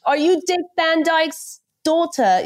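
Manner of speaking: high-pitched mock question; mocking British questioner. British people teasing her over her attempted accent, high mocking imitation. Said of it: "and they're always like".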